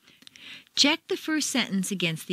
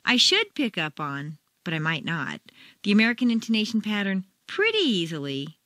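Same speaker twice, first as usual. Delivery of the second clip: doubtful emphasis. Shown as a demonstration. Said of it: "A doubting Thomas would show up with".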